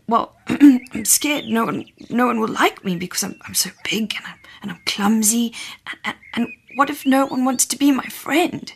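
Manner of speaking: a mild, hammed-up worried wail. Big dinosaur telling Dina his fears, wailing mildly. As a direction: stammer out the worry, nearly crying. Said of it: "the big dinosaur wailed".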